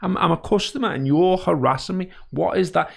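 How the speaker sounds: retelling his rant at a pushy sales caller; heated rant. Retold or imitated. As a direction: really let the salesman have it. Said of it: "I proper went on this full spiel".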